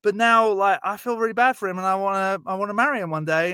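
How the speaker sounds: a hint of a smitten schoolgirl; sweet girl's voice. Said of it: "she's like".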